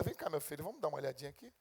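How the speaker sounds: a hint of a tender father; gentle God. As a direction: coax the child in gently like a father. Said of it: "Deus tinha que pegar o livro e falar".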